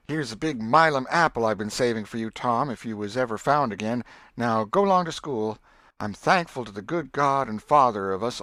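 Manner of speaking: scold, bless, then shoo them out; Aunt Polly voiced. Aunt Polly sends children off.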